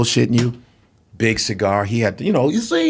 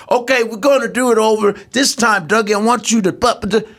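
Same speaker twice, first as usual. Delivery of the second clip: higher, imitating the director coaching; director's voice, a touch higher; quoting the director; 8 semitones higher than usual. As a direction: lightly mimic the boss redoing a scene. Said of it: "he would go".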